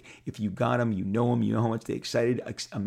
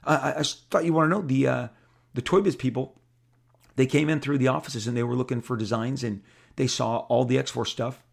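Bob Harris voice; 3 semitones higher, 3 dB louder than usual. Retold or imitated. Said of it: "And he goes".

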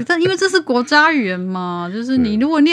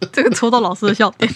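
laughing; 3 dB louder than usual. Real, not acted. Host laughing at guest.

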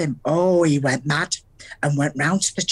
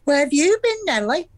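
smug; 5 semitones higher than usual. Retold or imitated. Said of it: "and said smugly".

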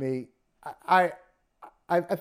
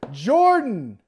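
louder, higher play-by-play call; frantic mock sports commentary; 5 semitones higher, 7 dB louder, slower than usual. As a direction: call the shot like a broadcaster. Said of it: "And he says".

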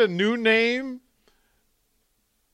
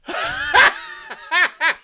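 high shrieking laugh. Real, not acted. Laughing at photos.

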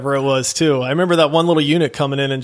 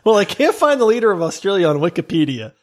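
mocking reread, higher; 3 semitones higher than usual. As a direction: echo the quote in a teasing, higher voice.

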